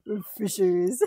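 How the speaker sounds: whispered joke line, under the breath. Pretend. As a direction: whisper it like a secret.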